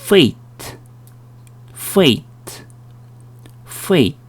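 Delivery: "fate" with "e" gliding into "ee", light final t; "fate" as "feh-ee-t", a careful teacher's model; "ei" diphthong. Shown as a demonstration. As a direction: model "fate" slowly as a separate word, "feit". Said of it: "에, 이 발음입니다".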